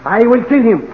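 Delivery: a hint of French Napoleon; lightly voiced French emperor; French accent. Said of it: "Napoleon opened the door".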